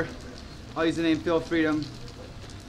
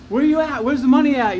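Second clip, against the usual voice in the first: higher, louder mock collector demand; demanding debt collector; 6 semitones higher, 5 dB louder than usual. Credit card company calls a debtor, demanding. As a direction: press hard for payment.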